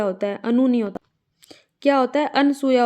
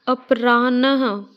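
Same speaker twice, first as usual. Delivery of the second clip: slow wrong form; slower than usual. Shown as a demonstration. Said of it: "अपराह्नः नहीं होता".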